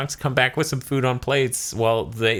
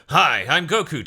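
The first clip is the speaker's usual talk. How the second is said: Goku greeting; 6 semitones higher than usual. Retold or imitated. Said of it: "you hear Schemmel go through".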